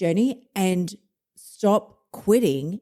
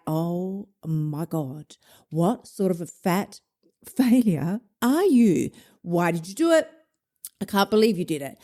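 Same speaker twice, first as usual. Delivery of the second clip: scolding inner voice; 3 semitones lower than usual. Acted. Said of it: "the voice in your head".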